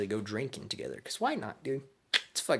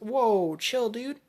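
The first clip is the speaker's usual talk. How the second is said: high, louder whoa, then squeaky pleading; father begging to stop the sparring, high squeak; panicked high voice; 11 semitones higher, 6 dB louder, slower than usual. Retold or imitated. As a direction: squeal like a dad getting beaten in a spar. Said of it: "and he's like".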